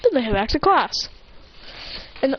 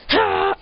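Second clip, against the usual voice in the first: quick high "ha"; short high exclamation; 9 semitones higher than usual. Retold or imitated. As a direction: let out a high, short cry. Boruto's cry on arriving.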